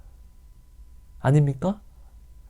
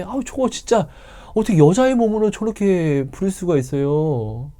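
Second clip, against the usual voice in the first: complaining disciples; 6 semitones higher than usual. Acted. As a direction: mildly whine about the noisy woman. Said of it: "제자들이 예수님에게 뭐라고 이야기하죠".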